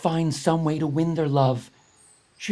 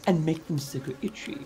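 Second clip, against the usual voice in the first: higher, sing-song kindly bat voice; lightly voiced wise flying fox; 9 semitones higher than usual. Flying fox explains her prank to the Ai Ai, kindly. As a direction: teach him a gentle lesson.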